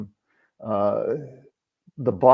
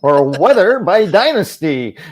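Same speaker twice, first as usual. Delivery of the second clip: high, louder British accent with a flourish; 7 semitones higher, 8 dB louder than usual. Shown as a demonstration. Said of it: "I gotta get your accents right".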